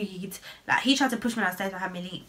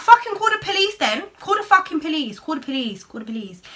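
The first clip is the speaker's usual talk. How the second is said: angry yell fading; 8 semitones higher, 6 dB louder than usual. Retold or imitated. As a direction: dare him furiously, then let it die out. Daring him to call police.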